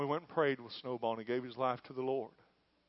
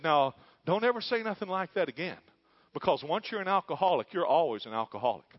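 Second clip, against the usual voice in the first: scolding lady; 5 semitones higher, 7 dB louder than usual. Retold or imitated. AA leader scolding Snowball.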